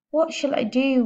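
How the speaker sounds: high, helpless wail. A narrator's reading. Father begging his family for help, wailed. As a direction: wail it like a desperate man. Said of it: "wailed the father".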